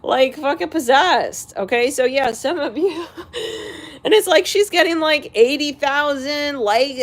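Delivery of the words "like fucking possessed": high, shocked outburst at a possessed app; freaked-out disbelief. Retold or imitated. Viewer startled by a self-closing screen, high freaked-out yell. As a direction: squeal it like the phone is haunted. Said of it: "you're just like".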